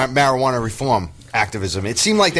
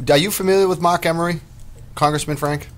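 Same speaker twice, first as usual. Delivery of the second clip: relaxed Boston speech on "Mark Emery"; Boston accent; 4 semitones higher than usual. Real, not acted. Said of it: "your good Boston accent".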